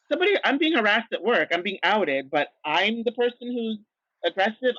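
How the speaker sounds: indignant at being called aggressive; exasperated. Retold or imitated. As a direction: throw up your hands in disbelief. Exasperated retort, pitch jumps.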